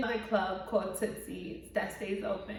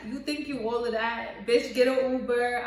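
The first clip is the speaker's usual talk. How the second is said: louder, mocking send-off; mocking shout; 4 dB louder than usual. Drunk friend kicking her out of the car, a loud mocking jeer. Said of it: "She was like".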